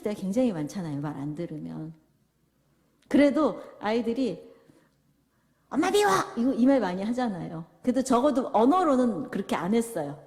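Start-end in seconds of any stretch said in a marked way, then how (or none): 5.7-6.1 put-on high, loud childish shout; child's angry cry. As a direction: yell it like a sulking kid. 아이가 엄마에게 소리침. (엄마에게 떼쓰는 아이처럼 높고 크게)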